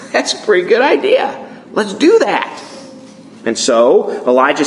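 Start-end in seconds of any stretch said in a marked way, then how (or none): 0.1-2.5 eager crowd. Acted. Crowd voiced agreeing in story.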